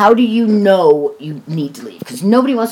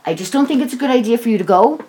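calm voice; 5 semitones higher than usual. Retold or imitated. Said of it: "in a calm voice".

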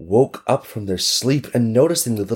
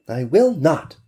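put-on firm little girl; 8 semitones higher than usual. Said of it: "the little girl said firmly".

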